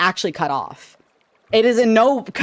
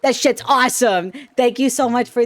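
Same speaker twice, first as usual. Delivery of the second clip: higher, raised text-to-speech read; TTS voice; 5 semitones higher, 3 dB louder than usual. Shown as a demonstration. Streamer reading a sub message for the viewer, TTS voice. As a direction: read it out loudly pitched up, like a TTS. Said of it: "I'll read it in the T T S voice".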